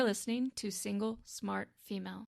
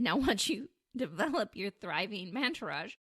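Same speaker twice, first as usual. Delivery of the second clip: still giggling. Real, not acted. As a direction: giggle breaking into the words. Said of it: "I'm still giggling".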